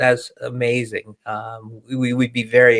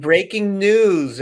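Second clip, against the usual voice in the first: mock newscaster; 6 semitones higher, much slower than usual. Mock news announcement on podcast.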